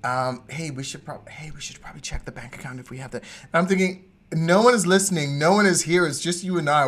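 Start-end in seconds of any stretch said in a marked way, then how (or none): 0.5-3.2 very hushed, furtive undertone; imitated money whisper. Host mimics partner discussing the bank account, hushed and secretive. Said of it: "Why are you whispering?". 4.3-6.9 loud, raised-pitch mock exasperation; exasperated retort. Host to whispering partner when nobody is around, loud exasperation.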